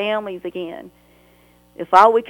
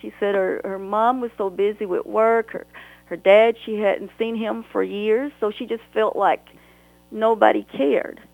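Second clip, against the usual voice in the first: getting emotional; 3 semitones higher than usual. Real, not acted. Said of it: "I'm sorry, I'm getting emotional".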